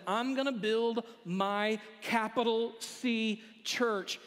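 slow, spaced-out stress on "capital C church"; deliberate, measured build up to "church"; weighty emphasis. Acted. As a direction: set "capital C church" apart word by word. Jesus announces his church with weight.

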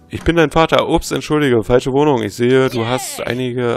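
hammed-up Darth Vader–style reveal; game character voice. Reads a character's lines aloud. (übertrieben gespielte Vaterstimme)

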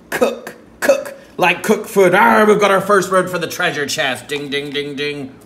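loud, high excited cheer. Pretend. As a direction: celebrate the real word loudly. Excited find of real word.

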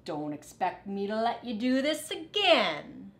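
mock gruff dog. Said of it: "said Dog".

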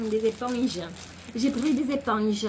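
playful, made-up regional French accent; mock accent from nowhere in particular. Shown as a demonstration. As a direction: put a silly sing-song accent on "éponges". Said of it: "avec l'accent".

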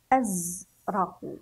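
أزرق in two parts, az and raqu; أزرق half joined, pausing once; partly blended. Shown as a demonstration. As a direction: say أزرق slowly with a break after the z. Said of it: "نتهجى الأحرف".

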